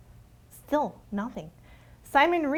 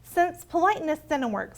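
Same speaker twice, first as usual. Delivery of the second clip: ordinary delivery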